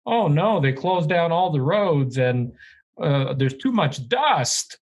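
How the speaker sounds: mimicking a whiny complainer; mock "oh no" griping; mock complaining. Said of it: "have the balls to complain about".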